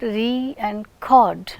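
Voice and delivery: "re and cord", slowly, each syllable apart; split syllables. Shown as a demonstration. Teacher dividing record into two syllables, slowly separated. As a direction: give "re" and "cord" each its own beat. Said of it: "we have two syllables in record".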